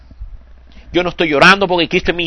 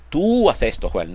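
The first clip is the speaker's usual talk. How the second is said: distant command; 4 dB quieter than usual. Shown as a demonstration. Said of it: "Dios no nos dice".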